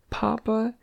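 put-on high, small child's voice; childlike question. A narrator's reading. Distressed boy turns to his father, high childlike question. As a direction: ask it small and high, unsure.

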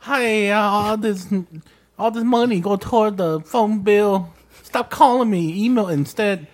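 high, slow mock Asian accent. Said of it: "a hardcore Asian accent".

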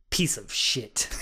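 low, offhand dismissal; deadpan contempt. Retold or imitated. Woman reacting to his love letter, deadpan contempt. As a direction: drop the pitch and dismiss him, deadpan.

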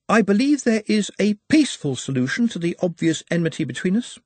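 lightly voiced courteous orc; high, precise and courteous; polite orc.

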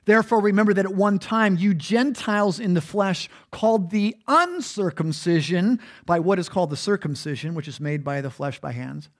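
measured reading from the Bible; scripture reading. Acted. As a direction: read the verse deliberately. Reads scripture aloud.

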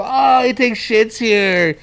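slow, drawn-out mock taunt; teasing schoolkids. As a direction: imitate kids jeering at a classmate, stretching the words. Imitating schoolkids teasing a classmate.

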